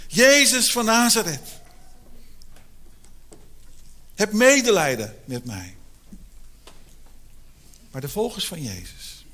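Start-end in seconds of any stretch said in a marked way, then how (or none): 0.1-5.8 pleading call. Retold or imitated. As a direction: stretch the name out as you beg. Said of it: "En hij begint te schreeuwen".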